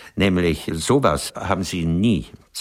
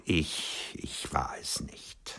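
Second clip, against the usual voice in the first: slow, hushed whisper, much softer; whispered confession; 10 dB quieter, slower than usual. Acted. Author whispers to his old lover that he was not faithful. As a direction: let the admission fall away into a whisper.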